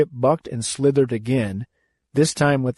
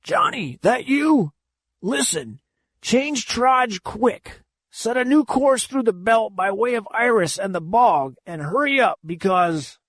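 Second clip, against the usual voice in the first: high, urgent skipper on the intercom; old captain giving orders; 10 semitones higher than usual. Acted. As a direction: bark the course change in a hurry. Captain orders over the audio.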